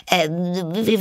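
high, stammered false start; flustered hesitation. A narrator's reading. Alice has offended the mouse, flustered hesitation. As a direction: stall on a high "Äh", searching for words.

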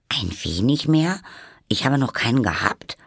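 mildly huffy, questioning retort; somewhat offended. A narrator's reading. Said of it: "antwortete Alice etwas empfindlich".

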